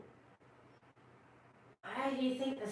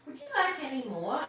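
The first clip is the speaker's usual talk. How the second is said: put-on much higher little-girl voice; 6 semitones higher, 5 dB louder, faster than usual. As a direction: speak up high as the small polite girl. Martha May offers more.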